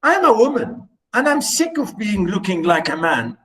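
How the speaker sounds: high, fast, pleading wife's voice; complaining wife. Retold or imitated. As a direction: whine it like a fed-up wife. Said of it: "she's saying to him".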